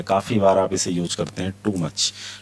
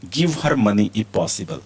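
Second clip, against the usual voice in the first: slow and deliberate; slow model reading; much slower than usual. Shown as a demonstration. Teacher reads the example slowly for learners. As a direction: lay each word out for the class. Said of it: "teacher models example sentence".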